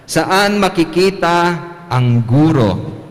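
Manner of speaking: teacher's question. Pretend. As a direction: ask it like a teacher quizzing kids. Priest voices teacher in joke.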